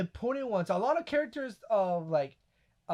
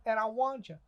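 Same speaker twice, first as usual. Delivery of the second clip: soft, lightly voiced impression; hushed imitation with stretched key words; Booty Warrior; 3 semitones higher, 10 dB quieter than usual. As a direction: quote him quietly, drawing out the offer. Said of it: "this universe's booty warrior".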